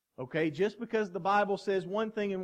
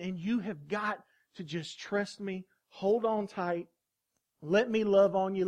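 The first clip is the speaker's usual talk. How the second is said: God comforting. Acted. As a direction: speak as a loving God holding a hurting child. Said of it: "God's there the whole time saying".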